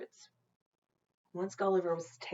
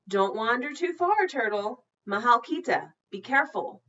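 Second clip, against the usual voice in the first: lightly voiced mother; 6 semitones higher, 7 dB louder than usual. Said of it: "his mother said".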